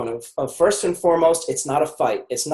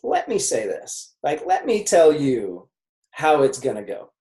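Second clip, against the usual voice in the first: firm parent. Retold or imitated. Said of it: "the parent's like".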